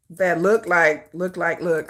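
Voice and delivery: low, slow words while typing; sounding out. Real, not acted. Typing a wallet search, phonetically sounding out the words. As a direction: say it piece by piece as you spell. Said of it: "I'm phonetically spelling".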